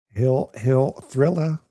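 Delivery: slow, drawn-out announcer call. Pretend. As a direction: announce it like a ring intro.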